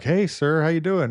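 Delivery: retold eager greeting; imitated greeting. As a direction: greet the patient brightly, pitched well up.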